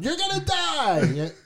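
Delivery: drawn-out, high, eerie warning; spooky doom voice. Retold or imitated. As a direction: say it like a creepy prophet of doom. Mocking scary doom warning.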